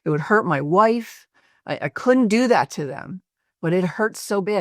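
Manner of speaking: toned-down screaming, pitched well up; retold distraught yelling. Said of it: "he starts yelling and screaming".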